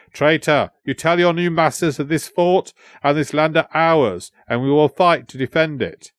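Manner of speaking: lightly acted proud prince standing firm; defiant prince. Prince answering the traitor translator, mildly defiant.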